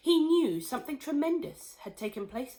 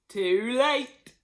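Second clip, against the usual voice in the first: pleased; 4 semitones higher, 8 dB louder than usual. Acted. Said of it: "looking pleased".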